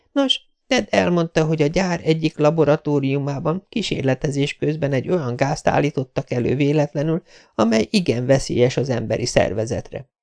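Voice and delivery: kissé magasabbra vett női szereplőhang; meséld el összeszedetten, enyhén lányos hangon; Jessica, az újságírónő. Acted. Girl continues her account. (magyarázó, visszafogottan megszemélyesített lány)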